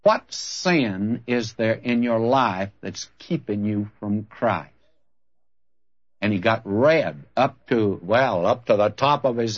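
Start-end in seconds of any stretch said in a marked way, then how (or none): 0.0-4.7 slow, deliberate, probing question; measured, pointed challenge; direct confrontation. Retold or imitated. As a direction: put it to them squarely, word by word. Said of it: "I looked him right straight in the eye".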